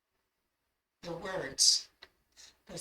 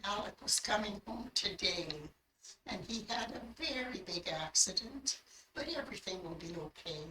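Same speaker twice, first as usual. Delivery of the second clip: softened, measured message; same beautiful voice; 6 dB quieter than usual. Retold or imitated. The voice tells Mary of Alec's accident, gently. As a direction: relay it gently, sinking softer at the close. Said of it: "the same voice again".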